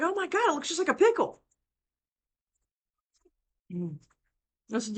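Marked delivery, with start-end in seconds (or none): 0.0-1.4 high, goofy imitation of a clueless young guy; mock clueless boyfriend. Mimicking the daughter's boyfriend gawking at a cucumber, high and goofy. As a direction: play him as amazed and a bit dim.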